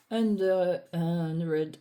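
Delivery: English title with a heavy French accent, x0.6 slow; strong French accent. Real, not acted. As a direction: read the English name in a thick French accent. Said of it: "Mon accent est toujours à couper au couteau". (titre anglais avec un fort accent français)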